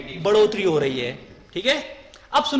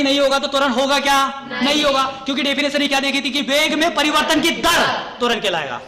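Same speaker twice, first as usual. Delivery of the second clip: emphatic teaching shout; 2 semitones higher, 3 dB louder than usual. Real, not acted. Teacher stresses the definition.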